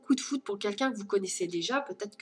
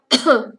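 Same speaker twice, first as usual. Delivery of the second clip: hard, loud cough from choking on a drink; 12 dB louder than usual. Real, not acted. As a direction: cough hard to clear the airway. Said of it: "j'ai avalé de travers".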